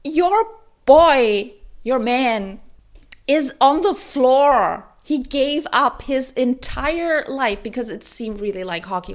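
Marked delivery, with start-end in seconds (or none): 0.0-7.6 outraged rant. Retold or imitated. Reviewer yelling at Shane on the page, outraged laughing rant. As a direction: blow up at the character in disbelief. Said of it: "And I was like".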